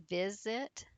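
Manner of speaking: visit with the weight on vi-; visit, first syllable picked out for learners; stress on first syllable. Shown as a demonstration. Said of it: "vi, on the first syllable".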